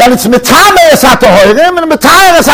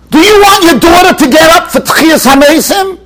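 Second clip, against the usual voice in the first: raised, urgent rebbe question; emphatic question; 5 semitones higher than usual. Retold or imitated. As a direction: push the question hard at him. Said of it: "The Steipler turned to this person and he said".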